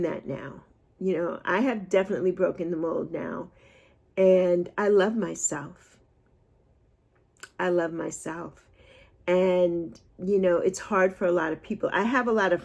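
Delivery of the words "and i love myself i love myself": sincere. Real, not acted. Affirming self love.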